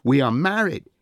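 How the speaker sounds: high, loud protest; voice rising. A narrator's reading. Princess claims Achilles as husband, voice rising. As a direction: push the pitch up and insist. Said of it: "voice rising".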